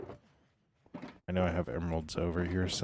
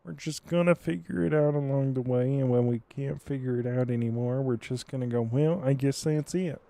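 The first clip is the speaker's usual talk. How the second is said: loud; 7 semitones higher, 5 dB louder than usual. Real, not acted. Bursts loud after whispering.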